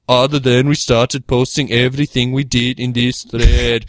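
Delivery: put-on German accent. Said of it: "let's get a German accent".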